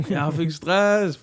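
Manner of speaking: slow, high Danish movie line; slow, high rendition of the Danish film line; movie quote in Danish. Retold or imitated. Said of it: "repeating the movie line".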